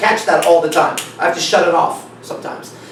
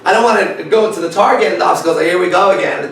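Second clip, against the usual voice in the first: laughing; 2 semitones higher, 4 dB louder than usual. Real, not acted. Laughing while telling.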